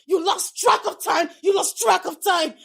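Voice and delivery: mocking shout. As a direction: shout it twice, scornfully. Wife throws excuse back.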